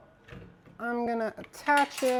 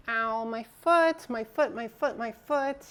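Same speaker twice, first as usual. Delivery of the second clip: mock pain. Streamer stubs toe on stream, mock whining in pain. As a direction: whine about the foot, half joking. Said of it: "I'm a professional toe stubber".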